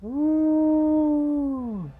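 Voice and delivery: high, long howling ooh; werewolf howl. Pretend. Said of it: "Awesome werewolf impression".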